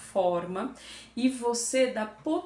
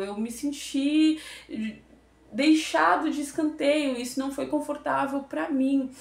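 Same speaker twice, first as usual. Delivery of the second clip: gentle sincere feedback; 2 semitones higher than usual. Shown as a demonstration. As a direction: open up honestly to a colleague. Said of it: "Se você está falando com um colega".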